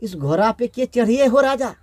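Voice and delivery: mild tearful wail, drawing out हो राजा; wailing lament. Acted. Widowed queen laments her dead king, mild wail. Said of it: "तो रोता था और बोलता था कि".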